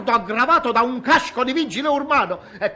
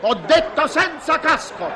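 higher, insistent command; firm repeat; 5 semitones higher than usual. Real, not acted. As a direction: repeat it firmly, no arguing.

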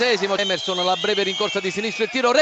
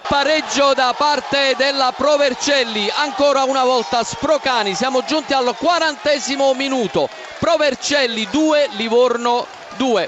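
raised, slowed score announcement; excited goal call; 2 semitones higher than usual. Real, not acted. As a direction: lift the voice to announce the equaliser. Equaliser announced live. (annuncio del pareggio concitato)

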